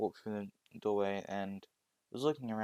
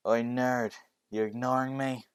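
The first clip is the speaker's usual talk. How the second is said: loud rough taunt at the nerd; bully yelling; 3 semitones higher, 5 dB louder than usual. Acted. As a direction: call him out, loud and cocky. Bully confronting classmate.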